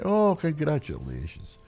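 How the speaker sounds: high, slow put-on congratulations; mock congratulations. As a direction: stretch it out up high, the agent faking delight. Teller voices Nick.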